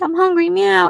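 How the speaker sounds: high, cutesy hungry kitty voice; cute cat voice. Retold or imitated. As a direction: play the cat begging for food, high and sweet. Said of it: "you have that cute meow".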